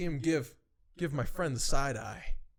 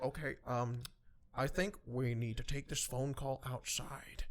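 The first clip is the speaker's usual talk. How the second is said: soft, hesitant, drawn-out suggestion; lightly voiced timid man, slow and careful; timid guy; 3 semitones lower, 7 dB quieter than usual. Timid colleague suggesting taking the call outside, hesitant. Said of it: "one of the timid guys".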